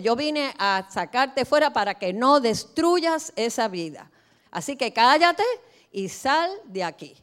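slow, loud, stern command to a demon; Jesus' rebuke. Acted. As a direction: order the demon out, each word hammered.

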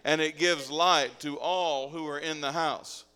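loud congregational reading; scripture read aloud. Acted. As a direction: lead the verse out loud in measured phrases.

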